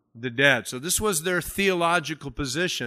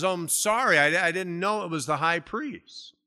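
higher-pitched, mildly surprised apology; apologetic quote; 3 semitones higher than usual. Retold or imitated. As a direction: lightly voice an apologetic Paul. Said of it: "Paul says".

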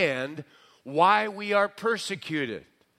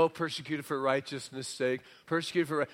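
lower, softer mimicked protest; mock complaint; 3 semitones lower, 5 dB quieter, faster than usual. Preacher imitating Christians put down for dumb things, mock complaint. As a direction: mimic self-pitying believers, voice dropped. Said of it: "and they go".

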